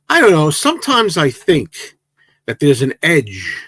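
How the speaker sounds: put-on joking Liverpool band accent, high and loud at the start. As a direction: put on a mock Liverpool pop-band voice. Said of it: "I'm doing the Beatles accent".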